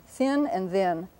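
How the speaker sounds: slow, careful "thin and then"; voiceless th on "thin", voiced th on "then"; contrasting th sounds. Shown as a demonstration. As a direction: set "thin" against "then", slowly. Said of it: "T H can be spelled in two ways".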